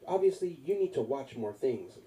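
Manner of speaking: put-on elderly lady. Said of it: "it was an elderly lady".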